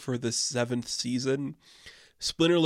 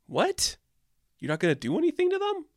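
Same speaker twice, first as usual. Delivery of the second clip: high, fast disbelieving cry; mock outrage at the heroes; incredulous; 13 semitones higher than usual. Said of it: "you're like".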